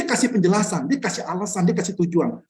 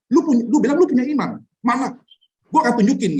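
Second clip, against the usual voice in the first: higher, louder blunt challenge, jabbing at the listener; harsh rebuke; 5 semitones higher, 4 dB louder than usual. Retold or imitated. Preacher voicing Yakobus challenging believers, in a harsh louder rebuke. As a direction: voice Yakobus taunting like a rough preacher. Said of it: "Yakobus itu ngomong kasar".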